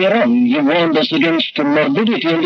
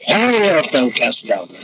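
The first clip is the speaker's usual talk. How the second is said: slow, measured and grave; slow, weighty scripture recitation; solemn psalm recital; 3 semitones lower, slower than usual. Retold or imitated. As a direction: speak the psalm over yourself deliberately. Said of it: "and say".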